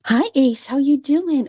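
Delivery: high-pitched hello to a pet; doting pet greeting. Real, not acted.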